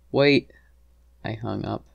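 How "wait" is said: high, louder cry to stop; pleading, pitched-up "wait"; urgent plea. A narrator's reading. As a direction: call out before they hang up. Wife stops him hanging up.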